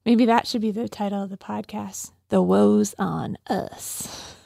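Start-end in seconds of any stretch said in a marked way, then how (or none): 2.3-4.3 Southern drawl. Acted. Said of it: "Your eyes got real big when you said it. You went Southern with it".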